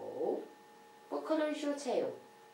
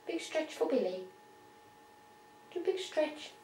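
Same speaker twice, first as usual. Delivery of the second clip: talking to a pet; 5 semitones higher than usual. Real, not acted. Coaxing pet bird to stretch.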